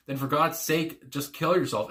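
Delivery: "God's sake" drawn out slowly, then falling; emphatic stress on SAKE. Retold or imitated. Quoting a song's harsh lyric, emphasis on GOD'S SAKE. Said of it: "And the emphasis with the".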